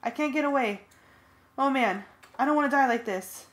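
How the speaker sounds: high loud desperate panic; panicked. A narrator's reading. Friend panics about dying, high loud desperate. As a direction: plead in terror. Cassie panicking under feet.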